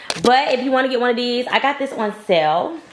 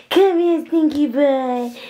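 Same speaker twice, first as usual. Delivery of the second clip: high, slow coaxing call; 5 semitones higher, slower than usual. Real, not acted. Mom calling baby.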